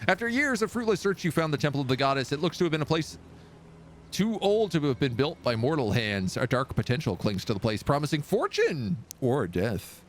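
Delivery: measured storyteller read; story narration. Acted. Gamer reading the quest text to viewers, in a storyteller voice. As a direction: draw the listener into the temple's dread.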